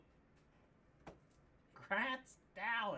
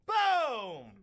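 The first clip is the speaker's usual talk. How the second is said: louder punchy boom; 6 dB louder than usual. Real, not acted. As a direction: slam the word like a hype man. Announcing card pull.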